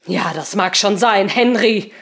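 spitting words. Acted. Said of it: "Seemann spuckte die Worte aus".

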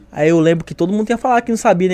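ordinary delivery

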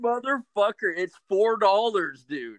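mock angry outburst. Retold insult to lowball buyer.

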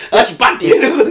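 laughing. Real, not acted. Cohost laughing adds punchline.

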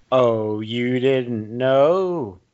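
slow drawn-out taunt; catchphrase delivery. Retold or imitated. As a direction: stretch it out like a wrestler. Echoing the Outlaws catchphrase.

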